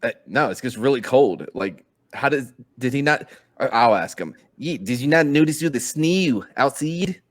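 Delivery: put-on loose New Zealand accent asking a question; New Zealand accent sliding into other accents; New Zealand accent, mixed up. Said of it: "I'm nailing this New Zealand accent".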